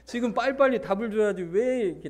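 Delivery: pressing demand. Acted. Crowd hurrying Jesus to reply, mildly badgering. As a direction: push for an answer, lightly acted. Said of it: "그러니까 막 다그치는 거예요".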